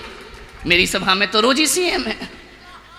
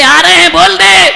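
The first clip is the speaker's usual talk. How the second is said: 1 gruff reply; 8 semitones higher, 12 dB louder than usual. Acted. बोले.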